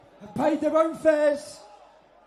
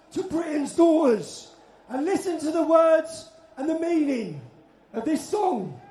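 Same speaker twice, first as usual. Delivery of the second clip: rally speech. Real, not acted. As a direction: speak to a big crowd. Impassioned rally address to crowd.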